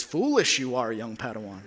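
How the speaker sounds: lightly voiced Yoda, barely changed; a hint of wise old Yoda. Dad teasing son about the Force, mild Yoda. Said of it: "in my best Yoda voice".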